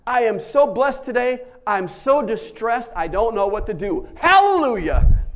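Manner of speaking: loud, laughing glee over distress; hammed-up giddy Paul; laughing joy. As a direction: laugh through the words. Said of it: "And Paul says".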